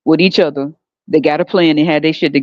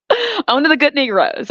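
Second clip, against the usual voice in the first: higher, mock white-American accent; hammed-up prissy white-people voice; code-switched white talk; 7 semitones higher than usual. Mocking the approved code-switcher, put-on white accent. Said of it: "what code switching mean".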